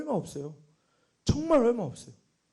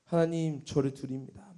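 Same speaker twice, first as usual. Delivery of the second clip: soft, low earnest plea; earnest prayer; 5 semitones lower, 6 dB quieter than usual. Retold or imitated. Retelling own prayer to God, earnest and hushed. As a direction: pray it quietly and earnestly, fading lower. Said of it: "막 엄청 간절히 기도하는데".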